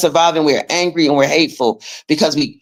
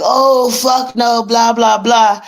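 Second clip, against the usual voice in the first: retold outburst; 4 semitones higher, slower than usual. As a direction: fling out a slow, indignant fuck no. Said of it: "That's why I was so mad".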